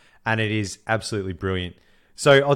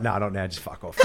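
mock sulky mutter; 6 dB quieter than usual. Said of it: "you're like".

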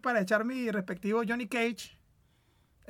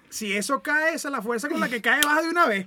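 laughing; 5 semitones higher, 8 dB louder than usual. Real, not acted. Cracking up at the joke.

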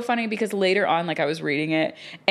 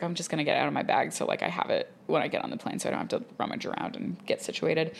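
hushed inner thought; 7 dB quieter, faster than usual. Retold or imitated. Thinking to herself in line.

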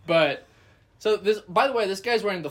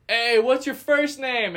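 heckler calling out; 7 semitones higher, 5 dB louder than usual. Retold or imitated.

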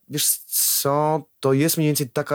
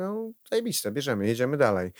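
enthusiastic approval; 3 semitones higher than usual. Retold or imitated. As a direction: pitch up and cheer the take, then move on. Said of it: "Mówię".

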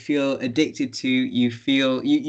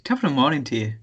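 put-on Irish accent; much faster than usual. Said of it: "Can you do an Irish accent?".

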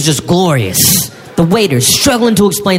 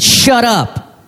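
urgent hush-up; 6 semitones higher than usual. Retold or imitated. Hushing friend to eavesdrop.

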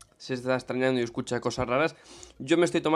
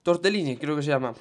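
talking while chewing; mouth full. Real, not acted. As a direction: speak through a mouthful. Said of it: "estoy hablando con la boca llena". (con la boca llena)

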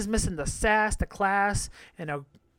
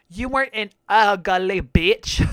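emphatic verdict; 9 dB louder, slower than usual. Pretend. Emphatic slow loud verdict.

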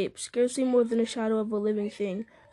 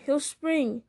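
raised, urgent alarm; cried warning; 4 semitones higher than usual. A narrator's reading. Sam warning that Gollum will attack, urgent cry. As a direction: warn urgently in a higher voice. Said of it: "cried Sam".

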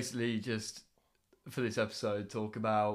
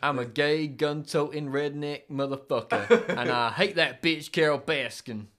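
slow, louder redneck impression; Joe Exotic; 3 semitones higher, 5 dB louder, slower than usual. Co-host quotes the tiger keeper's boast, slow redneck impression. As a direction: drawl it proudly in a higher, put-on voice. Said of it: "Joe Exotic".

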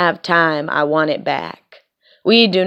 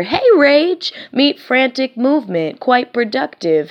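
sudden high burst; 7 semitones higher than usual. Acted. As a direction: leap up high as if rage grabbed you. Poem greets rage with a jump.

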